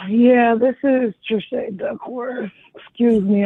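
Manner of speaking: tired yawning voice. Real, not acted. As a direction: talk through a yawn, sleepy. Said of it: "I'm yawning because it's really late".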